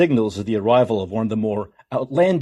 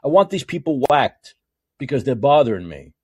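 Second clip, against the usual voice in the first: mob boss quote. Retold or imitated. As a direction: lean into it like a gangster giving orders. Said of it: "You can't say".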